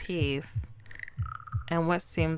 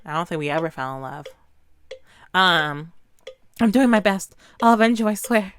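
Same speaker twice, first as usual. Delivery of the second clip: frantic apology; 5 dB louder than usual. Acted.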